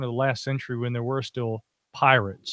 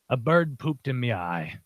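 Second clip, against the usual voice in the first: wistful pirate; 3 semitones lower, slower than usual. Retold or imitated. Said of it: "looks at him wistfully".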